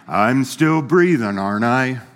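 slow, droopy, hint of a gloomy donkey; Eeyore impression. Preacher mocks gloomy believers as Eeyore, slow and droopy. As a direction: drag it out like a defeated Eeyore. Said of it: "What's that donkey's name? Eeyore?".

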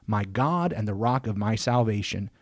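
measured, solemn reading of a psalm; scripture reading. Acted. Host reading Psalm eighty-nine aloud before discussing it, in a solemn reading voice. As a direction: read it aloud like a lector in church, each line given its weight.

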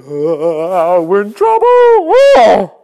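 hammed-up wail of dismay; mock lament. People of Nehemiah's day weeping, mock wailing. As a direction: groan it like the crying crowd. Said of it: "they started crying, going".

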